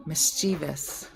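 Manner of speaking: slow three-syllable Mischievous, stressed in the middle; attempted correction. Shown as a demonstration. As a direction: say Mischievous as "mis-CHEE-vus". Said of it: "Mischievous is wrong".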